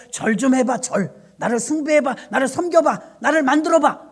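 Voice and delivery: lightly voiced false god demanding worship, rising in insistence. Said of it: "다른 신들은 다 절하래요".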